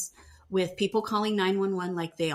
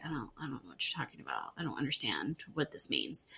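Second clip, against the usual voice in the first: retold confusion; 6 semitones lower, 9 dB quieter, faster than usual. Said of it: "she's like".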